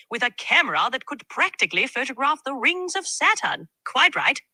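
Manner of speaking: jolly British tech enthusiast; posh British tech fan, cheery; British accent. Acted. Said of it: "Can you do a British impersonation of, uh, a tech enthusiast".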